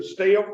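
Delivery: "still" stretched to sound like "stale"; "still" in Kentucky dialect, broadened vowel; backsliding STILL. Shown as a demonstration. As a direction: say "still" with a country vowel, "stay-ul". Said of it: "I'm backsliding a little bit".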